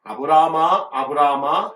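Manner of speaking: loud, rising call of a name. A narrator's reading. Angel calling to Abraham from heaven, loud call. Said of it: "하늘에서부터 그를 불러".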